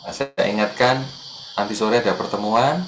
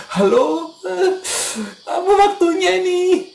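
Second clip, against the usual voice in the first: high, laughing mock voice picking up the phone; hammed-up higher pitched phone voice; mock sleepy phone answer; 4 dB louder, slower than usual. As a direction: play someone groggily answering a reminder call. Retold phone call after reminder.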